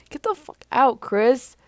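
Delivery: high, loud angry shout; high, loud furious yell. Acted. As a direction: throw him out angrily. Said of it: "Tristan says".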